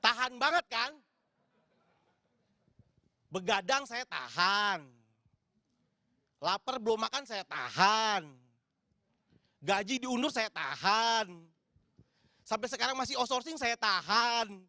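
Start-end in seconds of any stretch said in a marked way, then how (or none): 3.3-14.6 slow, each line weighed down; mock-solemn litany of endurance; slow deliberate list. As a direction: drag out every hardship, savouring it. Comic list of things endured.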